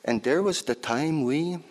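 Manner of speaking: lightly voiced lively old auntie; auntie's voice. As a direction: tell it as your auntie would. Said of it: "this piece is in my auntie's voice".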